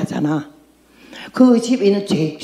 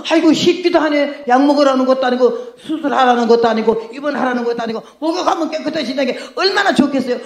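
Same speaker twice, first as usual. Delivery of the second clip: mocking scoff; 4 semitones higher than usual. Naaman mocking the easy cure.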